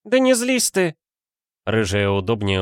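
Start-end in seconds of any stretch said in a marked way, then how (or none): 0.0-1.0 high, bright-pitched coaxing friend; a much higher, teasing female voice; Valentina voice. A narrator's reading.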